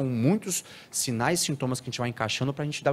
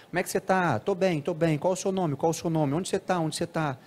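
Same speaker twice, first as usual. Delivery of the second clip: higher-pitched parroting of each phrase; echolalic repeating; 5 semitones higher than usual. Shown as a demonstration. Lecturer shows parents how an autistic child echoes questions, echolalic repeating. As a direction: imitate a child echoing every question straight back. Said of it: "tem a ecolalia, a repetição".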